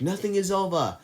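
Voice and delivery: imitating Stallone breaking down in tears; crying Stallone. Recalling Stallone's breakdown scene, mock tearful high cry. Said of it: "Stallone breaking down and crying and saying".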